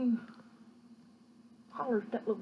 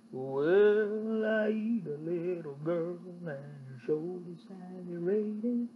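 low, slow bear voice; big bear voice; 4 semitones lower, slower than usual. Acted. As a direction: rumble it like the hungry bear. Bear's reply.

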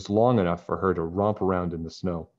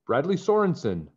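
raised voice to reach him; calling out; 8 semitones higher, 3 dB louder than usual. Acted. Nancy calling Bradley up the hill, raised voice. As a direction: call his name across the hill. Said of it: "Nancy called".

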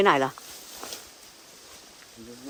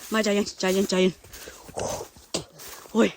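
real terror, voice shooting up in panic; scared shout at a face in the woods; panicked fear; 9 semitones higher than usual. Real, not acted. Seeing a face in the forest.

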